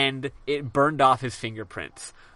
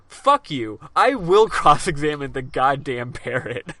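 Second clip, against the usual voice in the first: louder, defiant comeback; hammed-up indignant vow, hitting each word; stubborn, louder mock outburst; mock defiance; 6 dB louder, slower than usual. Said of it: "Nick is like".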